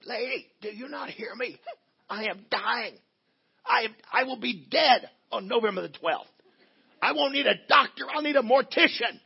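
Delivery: high, rising disbelief, building to a near shout; incredulous, pleading with the receptionist in his head; mock outrage at a July to November wait; exasperated inner rant. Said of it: "but I'm thinking".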